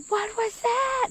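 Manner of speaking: high, slow, frightened plea; near tears. Retold or imitated. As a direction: ask it as if about to cry. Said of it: "And I'm almost in tears".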